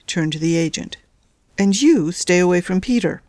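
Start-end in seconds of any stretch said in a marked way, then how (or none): 1.6-3.2 order. Acted. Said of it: "she ordered".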